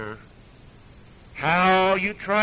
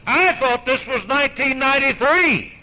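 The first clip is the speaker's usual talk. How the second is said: higher, louder mocking echo of the quote; scornful quote, laughing; mocking repeat; 7 semitones higher, 5 dB louder than usual. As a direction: repeat it to ridicule it. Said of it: "think about what this guy's saying".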